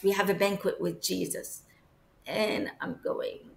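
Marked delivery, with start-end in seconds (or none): 0.0-1.6 casual, quick statement, no big deal; matter-of-fact. Retold or imitated. Nadia hurrying the guys along to a banquet, matter-of-fact. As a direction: say it simply, as if it were routine. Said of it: "she said it in such a simple, as a matter of fact kind of thing".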